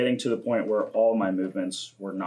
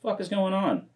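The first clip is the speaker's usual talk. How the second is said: high, incredulous mock outburst; baffled new yoga student, mock-incredulous; bewildered; 9 semitones higher than usual. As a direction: pitch it up in total confusion. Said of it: "And I'm like".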